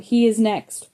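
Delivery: lightly voiced evil clown doll; terrible voice. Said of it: "that terrible voice calls out".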